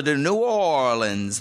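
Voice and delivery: drawn-out Cajun New Orleans; Cajun accent. Pretend. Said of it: "that's your worst sound effect".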